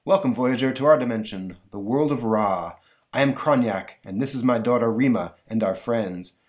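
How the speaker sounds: a hint of a grand old ruler; lightly voiced regal Kronyak. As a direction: stately welcome to a traveller. Voices Kronyak the pharaoh figure.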